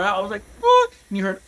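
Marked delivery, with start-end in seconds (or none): 0.6-0.9 sudden high shouted what; panicked shout at the wheel; shocked yell. Retold or imitated. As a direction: yell it in total disbelief. Panic taking the corner fast.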